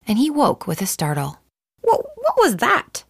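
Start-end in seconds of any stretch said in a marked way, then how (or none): 1.8-3.0 high, slow, breathless whispered gasp; a chick jolted awake, gasping the question; startled gasp. Acted. Chicken Little jolted awake by an acorn, whispering in fright. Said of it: "he gasped".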